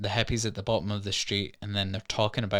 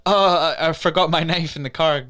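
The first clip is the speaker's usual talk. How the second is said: loud, higher opening on a made-up excuse; mock sudden realisation; 4 semitones higher, 4 dB louder than usual. Girl excusing herself to fetch her knife, mock sudden realisation. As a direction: act suddenly remembering something. Acted excuse to slip away.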